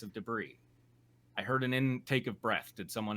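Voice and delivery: measured audiobook-style reading; steady, composed narrator; story narration. A narrator's reading. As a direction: read it out evenly, as prose.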